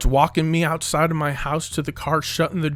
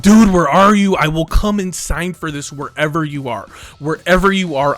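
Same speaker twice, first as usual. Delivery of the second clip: loud, raised, urgent plea; frantic demand; 3 semitones higher, 8 dB louder than usual. Retold or imitated. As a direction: re-enact an urgent call to a driver. Acted frantic phone call to driver.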